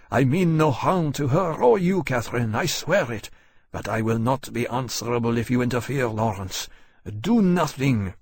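tense, pleading threat; desperate Frenchman. Acted. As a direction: swear it, then warn him off. Choiseul threatens, swearing.

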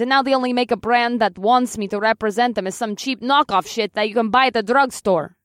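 a vain heroine venting her lost sponsors; indignant Russian heroine. Acted. Killer Kitten complains, Russian accent.

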